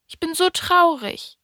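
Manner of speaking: high-pitched, sad little prince. A narrator's reading. Little prince tells the fox of his sadness, high-voiced.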